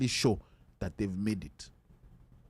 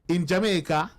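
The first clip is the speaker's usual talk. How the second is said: a weak, hammed-up Jamaican accent; lightly put-on Jamaican accent. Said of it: "That's a bad Jamaican accent".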